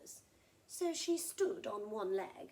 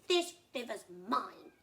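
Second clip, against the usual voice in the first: smug crocodile; 8 dB louder, slower than usual. Acted. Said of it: "said the crocodile".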